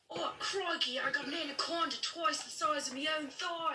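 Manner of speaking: high-pitched, over-the-top Australian impression; broad bogan Australian accent. Guest imitating a kid for podcast hosts, high broad Australian accent. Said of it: "there's a kid that he always sits there and he goes".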